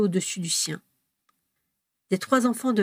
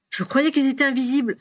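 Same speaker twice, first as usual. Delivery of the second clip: high, worried protest; mild alarm; 6 semitones higher, 3 dB louder than usual. A narrator's reading. Albus answering James's warning, mildly alarmed. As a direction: protest with a touch of panic.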